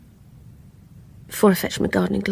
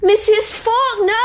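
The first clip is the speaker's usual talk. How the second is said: high, louder, drawn-out call; alarmed call into the silence; 11 semitones higher, 4 dB louder, slower than usual. Acted. Calling, no answer.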